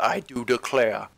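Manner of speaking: slow, drawn-out Southern drawl; mock Southern "I do declare" accent. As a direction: put on a genteel Louisiana accent. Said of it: "Oh my god, the accents".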